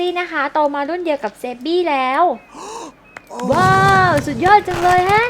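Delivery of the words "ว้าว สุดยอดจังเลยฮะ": louder, higher wide-eyed wow; amazed character voice. Acted. Character gushing over the fireworks, louder and higher. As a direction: gush like a delighted kid.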